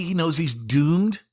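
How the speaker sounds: slow and deliberate. Real, not acted. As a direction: spell out "He knows he's doomed" slowly and evenly, no single word punched. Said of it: "he's crazy".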